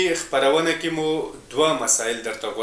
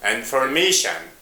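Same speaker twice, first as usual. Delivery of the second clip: "Information" with "ma" stressed; "Information" as in-for-MA-tion; stress on second-last syllable; 2 semitones lower than usual. Shown as a demonstration. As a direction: put the emphasis on the third syllable of "Information". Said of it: "in the last second syllable".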